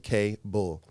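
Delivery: "K Bull" as two separate words, letter K then Bull; reading misspelling aloud. Shown as a demonstration. Reading a homemade card for the host, "K Bull" sounded out in two parts. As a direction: split "K Bull" apart, giving Bull its full sound. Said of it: "on the card it said".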